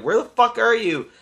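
imitating an impatient guy calling for his date; mock shout. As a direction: yell for her across the parking lot. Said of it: "starts shouting for Lana".

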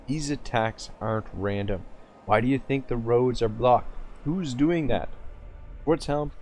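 steady dramatic reading of a fantasy novel; story narration. A narrator's reading. Streamer reading a novel chapter to viewers, narrating. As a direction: read the chapter aloud like an audiobook.

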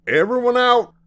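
high, loud shouted order; urgent calling out. A narrator's reading. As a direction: order passengers out at full voice. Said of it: "called the driver".

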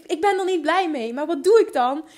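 ordinary talk

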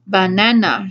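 "Banana" said slowly, falling, full of doubt; "Banana" as if tasting a strange word; suspicious "Banana" with a falling tune; dubious. Acted. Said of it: "she said dubiously".

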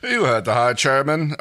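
loud royal bellow; a hammed-up royal roar. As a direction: roar at the underlings. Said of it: "Rigel roared".

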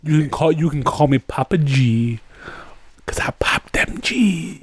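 smooth DJ sliding into whisper; late-night radio host. Pretend. Host introducing himself as Papa G, late-night DJ. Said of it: "This is late night G D P G".

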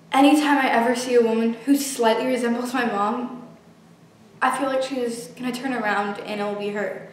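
quiet, numb grief; hollow and broken, barely speaking; tragic heroine sorrow. Acted. Quiet grief over dead mother.

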